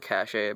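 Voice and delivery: cache said with two syllables, "cash-ay"; mispronunciation of cache. Shown as a demonstration. Correcting how some people say it, cache as "cash-ay". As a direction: end cache on an added "ay". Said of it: "Some people call it cache".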